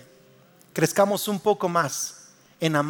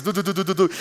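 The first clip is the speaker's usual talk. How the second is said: imitated heartbeat. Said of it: "mi corazón así".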